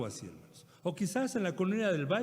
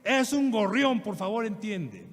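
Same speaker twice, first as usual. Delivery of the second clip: higher, louder exasperated outburst; desperate yelling son; 6 semitones higher, 6 dB louder, slower than usual. Retold or imitated. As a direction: yell it at the old father, fed up. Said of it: "desesperado le dice".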